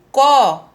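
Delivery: "có" said loud and held; firm, drawn-out "có"; stressed syllable. Shown as a demonstration. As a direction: isolate "có" as the strong syllable. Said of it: "é a sílaba mais forte".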